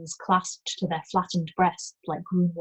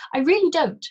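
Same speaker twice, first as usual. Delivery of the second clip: rising panic; 6 semitones higher, 6 dB louder than usual. Acted. Panicked denial continues.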